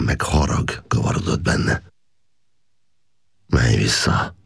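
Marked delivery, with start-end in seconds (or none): 3.5-4.3 gently. A narrator's reading. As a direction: send the tiger back tenderly. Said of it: "mondta gyöngéden".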